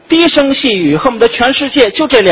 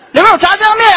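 里边有炸酱面 called out high and loud; loud restaurant call; loud waiter; 11 semitones higher, faster than usual. Shown as a demonstration. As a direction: hawk 里边有炸酱面 across the room. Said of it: "看看是不是说话声音大".

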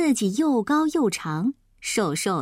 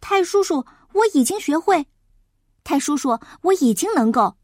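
put-on eager boy; 3 semitones higher, 3 dB louder than usual. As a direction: beg keenly like a small pupil. Eager boy pleads with teacher.

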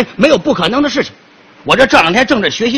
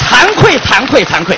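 mock modesty; 3 dB louder, slower than usual. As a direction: pretend to be humble. 假谦虚. (假装谦虚)

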